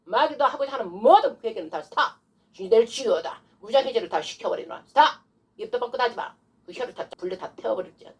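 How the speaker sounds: commanding exorcism demonstration; forceful command. Shown as a demonstration. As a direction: decree defeat over the devil. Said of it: "이렇게 막 나가야 돼".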